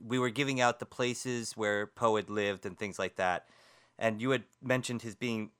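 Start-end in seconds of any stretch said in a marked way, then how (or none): 4.0-5.5 talking through hiccups; interrupted by a hiccup. Real, not acted. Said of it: "I've got the hiccups".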